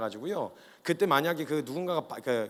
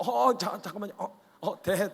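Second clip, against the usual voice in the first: high, ticklish yelps, broken up; ticklish squirming; 3 semitones higher, slower than usual. Acted. Disciple having his feet washed by Jesus, ticklish squirming. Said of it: "간지럽기도 하고".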